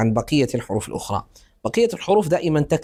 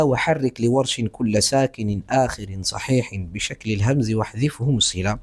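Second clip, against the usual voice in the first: recited verse; 3 semitones lower than usual. Shown as a demonstration. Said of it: "قال الشاطبي".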